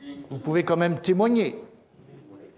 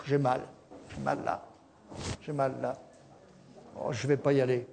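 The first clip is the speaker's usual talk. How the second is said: softer, whiny grumble about aches; mock whining; 3 semitones lower, 4 dB quieter than usual. Churchgoer mocked for skipping church, soft whiny moan. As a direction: moan about the pain to stay home. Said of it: "Ou alors".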